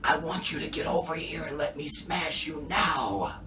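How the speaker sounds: a strained half-voiced yell; David yelling. Imitating David's best attempt at yelling. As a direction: push it like he's trying to shout. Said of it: "this is David yelling".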